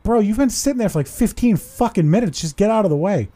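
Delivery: mock exasperated yell at the driver. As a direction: tell him off, fed up. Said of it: "I'm like".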